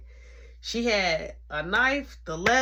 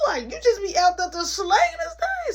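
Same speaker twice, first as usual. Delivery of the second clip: tone 1; 11 semitones higher, 4 dB louder than usual. Real, not acted. Narrator shocked, calling out.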